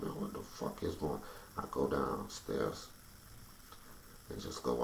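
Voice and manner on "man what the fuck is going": whispered disbelief. Retold or imitated. Confused at her bedside.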